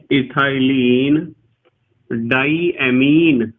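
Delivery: stretched out, slow naming; slow teacher dictation. Shown as a demonstration. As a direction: say the name slowly so students can write it. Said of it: "teacher dictating a name".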